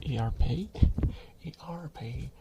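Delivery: odd accent on "A R P", last letter like "pay"; weird accent. Real, not acted. Streamer stumbling over "A R P", weird accent ending in "pay". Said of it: "That was a weird accent to have".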